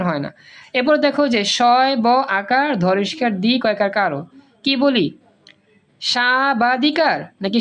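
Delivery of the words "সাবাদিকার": সাবাদিকার drawn out slowly with the ব sounded; wrong pronunciation. Shown as a demonstration. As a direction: stretch সা-বা-দিকার, voicing the b. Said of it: "সাবাধিকার না সাধিকার". (সাবাদিকার, ব টেনে উচ্চারিত)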